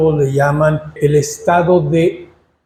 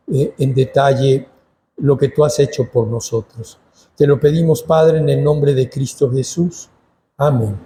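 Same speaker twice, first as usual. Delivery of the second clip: slightly lowered, measured praying voice; prayer; 3 semitones lower than usual. Real, not acted. Teacher praying to God before Bible study, prayer. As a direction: pray earnestly in an even, subdued tone.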